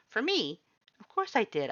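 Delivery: loud high cheerful skeleton voice; bright booming skeleton character; Papyrus voice. A narrator's reading.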